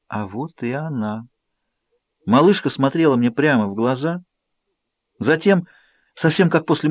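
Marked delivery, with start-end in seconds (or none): 0.1-1.2 soft, slow hushed whisper. A narrator's reading. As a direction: whisper it tenderly. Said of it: "прошептала".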